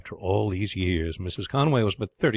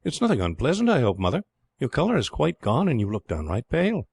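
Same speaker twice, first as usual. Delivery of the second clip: put-on boy's voice; 6 semitones higher than usual. A narrator's reading. Boy Ralph worried about mother.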